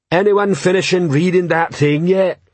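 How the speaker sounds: high-pitched troll call. Acted. Troll waiting with crossbow, calling to the crowd.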